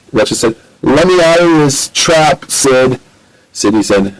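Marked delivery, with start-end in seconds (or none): 0.8-3.0 demanding. Acted. Trapped Ratchet demands release.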